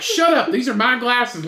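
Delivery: mock-angry retort, starting high; retold pissed-off. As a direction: imitate a squabbler losing patience. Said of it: "he started getting pissed".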